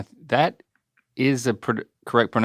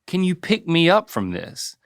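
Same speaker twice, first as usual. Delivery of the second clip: mimicking son's request; 6 semitones higher than usual. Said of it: "The worst thing, Dad, is".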